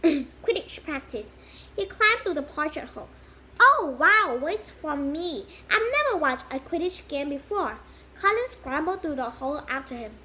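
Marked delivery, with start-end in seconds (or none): 3.6-7.8 excited. Acted. Colin excited.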